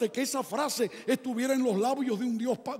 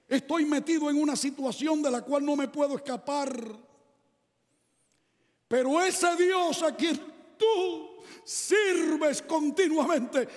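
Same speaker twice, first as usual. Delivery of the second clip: King Darius pleading; 4 semitones higher than usual. Acted. Preacher voices King Darius.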